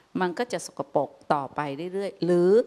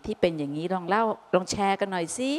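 gentle asking. Retold or imitated. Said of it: "กลับอาจจะถาม".

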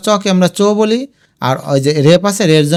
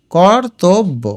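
কর্তব্য as kor, tob, bo; syllable by syllable; much slower than usual. Shown as a demonstration. Teacher repeats it for spelling, কর্তব্য split into syllables. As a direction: separate the three beats of কর্তব্য. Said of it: "ভেঙে ভেঙে লিখবে".

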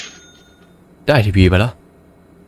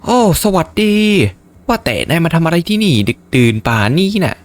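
higher NPC voice; 8 semitones higher than usual. Acted. Voicing NPC customer.

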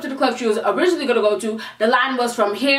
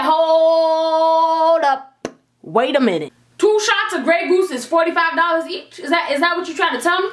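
indignant disbelief; 3 semitones higher than usual. Retold or imitated. Confronting bartender over change.

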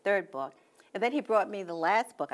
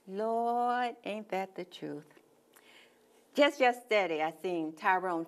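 poem recital; 2 semitones higher than usual. Acted. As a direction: perform it like two gossiping church women. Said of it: "I think you have a poem".

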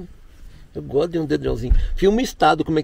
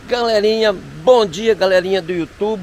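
cheery greeting; 4 semitones higher, 5 dB louder than usual. Real, not acted. Morning vlog greeting.

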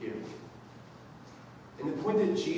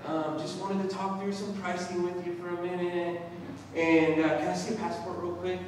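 trepid; 3 semitones higher than usual. Retold or imitated. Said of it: "she's, like, all trepid".

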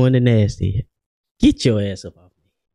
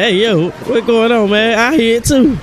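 put-on high, squeaky voice for the baby son; high cartoon voice for the baby backing up dad; 11 semitones higher, 3 dB louder than usual. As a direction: voice the baby like a tough little man. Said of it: "Kyrie like".

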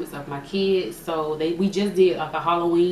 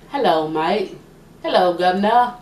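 attempted London accent greeting; 5 dB louder than usual. Shown as a demonstration. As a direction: try a cheery Cockney hello, amateurishly. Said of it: "are you good at accents? ... London".

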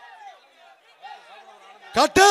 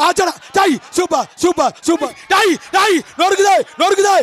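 excited commentary; 3 semitones higher than usual. Real, not acted. Jallikattu commentary, held shouting.

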